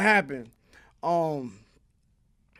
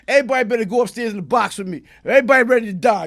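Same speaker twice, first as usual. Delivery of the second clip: fast shouting; 2 semitones higher, 7 dB louder, faster than usual. Retold or imitated. Retold fast loud threat.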